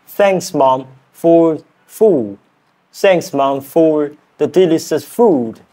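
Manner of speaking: non-native go at a British accent; British accent attempt. Shown as a demonstration. Learner thanking Mom in a practice sentence, British accent attempt. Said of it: "that accent".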